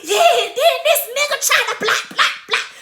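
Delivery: high, loud mock ranting; egged-on outburst, half laughing; hyped-up pissed. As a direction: replay getting worked up by your friends. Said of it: "the more they getting pissed".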